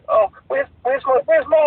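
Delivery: high-pitched mock mum voice, dissolving into laughter; imitating friend's mum. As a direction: try the mum's voice while cracking up. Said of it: "she came up to me and said".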